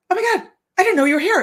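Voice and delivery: fast, high, loud gush; excited greeting. Retold or imitated. A woman greets the speaker at the show, excited. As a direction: gush like a delighted fan.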